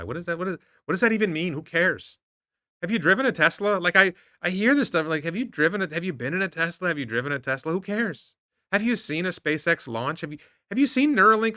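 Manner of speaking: worked-up disbelief at the critics; exasperated rant. Real, not acted. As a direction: fire off the questions in disbelief.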